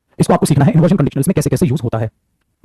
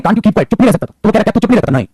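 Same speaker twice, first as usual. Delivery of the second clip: higher-pitched, mildly irritated rebuke; mock scolding; 5 semitones higher than usual. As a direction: raise the pitch and lightly scold someone into silence. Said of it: "कभी-कभी डांट है, धमकी है". (ऊँचे सुर में हल्की दिखावटी डांट)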